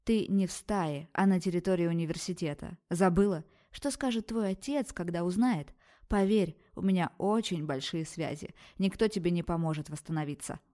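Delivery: lightly voiced stern dean; a hint of an iron scolding; harsh rebuke. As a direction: rap out each word. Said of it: "грубо отчеканила она".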